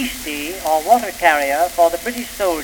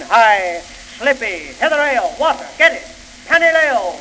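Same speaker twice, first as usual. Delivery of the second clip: calling out; 3 semitones higher than usual. Acted. Soldiers calling for water.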